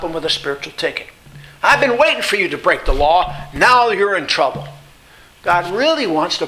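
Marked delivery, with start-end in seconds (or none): 1.6-4.7 lightly voiced traffic cop, pouncing on a culprit; a hint of a gotcha cop; cosmic cop. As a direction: play a cop who has caught someone, lightly. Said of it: "God's not a cosmic cop".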